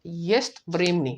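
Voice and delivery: "येस्ट व्रेमनी" said slowly and carefully; slow Russian demo; Russian phrase. Shown as a demonstration. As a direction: model "येस्ट व्रेमनी" syllable by syllable. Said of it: "ना?".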